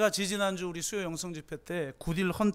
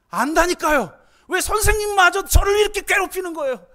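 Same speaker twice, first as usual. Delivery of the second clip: much higher and louder, protesting; angry outburst; 9 semitones higher, 8 dB louder than usual. Acted. Young genius yelling at his therapist to stop. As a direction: push back, fed up and hurt. Boy shoving therapist away.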